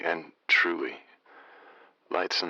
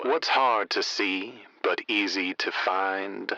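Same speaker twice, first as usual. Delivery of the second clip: measured slow poet's recital; slow rhyming verse; slower than usual. Acted. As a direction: lay the lines down slowly, like a riddle. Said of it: "I'll lay down some lines".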